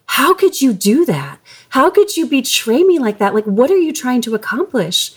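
retold indignation. Wife telling husband off over a photo, retold indignantly. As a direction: act out an angry, indignant confrontation, not shouted. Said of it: "I felt so much anger and indignation in that moment".

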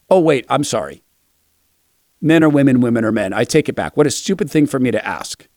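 mock sheepish retreat; sarcastic apology. Real, not acted. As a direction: pretend to take it back, dripping sarcasm.

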